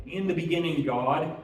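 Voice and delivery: ordinary delivery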